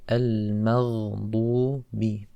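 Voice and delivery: "al-maghdubi" slowly with a thin "ma"; light meem. Shown as a demonstration. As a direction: draw out "al-maghdubi", m kept light. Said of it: "It's a light letter".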